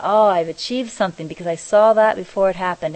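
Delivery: excited. Retold or imitated. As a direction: voice his proud discovery with mild excitement. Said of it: "so excited".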